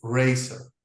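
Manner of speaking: razor said with an S sound; soft C razor. Shown as a demonstration. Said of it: "This one is".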